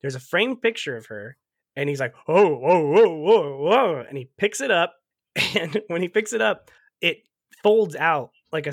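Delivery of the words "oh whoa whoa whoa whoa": louder excited whoa whoa; mock ogling whoa. Cat gawking at the mom's photo, louder excited whoas. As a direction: play the cat gawking at a pinup.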